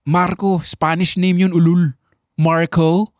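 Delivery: mock someone for his fancy pronunciation; mocking friends. Friends teasing speaker for saying Marco, mocking. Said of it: "Pinagtawanan ako".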